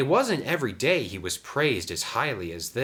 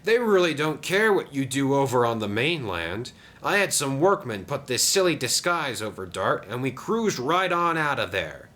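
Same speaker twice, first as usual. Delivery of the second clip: higher, boastful engine voice; pleased Den; 7 semitones higher, 3 dB louder than usual. Acted. Den tells Diesel about the rescue, pleased. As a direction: report the caper proudly, pitched up.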